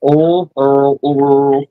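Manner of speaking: "oh" said as oil in several dialects; dialect variants of oil. Shown as a demonstration. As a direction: try "oh" as awl, then varied vowels. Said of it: "all the different dialects of".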